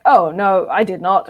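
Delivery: British RP, with "not" held long and rounded; British accent. Shown as a demonstration. Man showing how Brits say "not", in a British accent. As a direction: say "not" the posh English way, stretched a touch. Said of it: "British accent is the word not".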